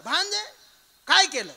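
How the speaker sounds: high, lilting uncle's greeting into a question; Shakuni. Acted. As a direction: imitate the uncle's signature way of addressing his nephew. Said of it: "त्याची ती बोलायची style".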